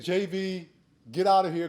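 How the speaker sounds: mildly mock-angry order off the field; livid coach. Furious coach sending the JV kid off to shower, mock angry. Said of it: "he was livid".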